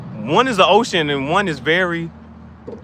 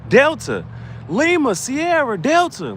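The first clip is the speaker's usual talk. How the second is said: emphatic spelling; 11 semitones higher, 3 dB louder, slower than usual. Acted.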